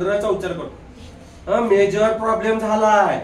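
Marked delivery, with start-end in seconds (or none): 1.6-3.2 Marathi English. Retold or imitated. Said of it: "तसं म्हणत नाही".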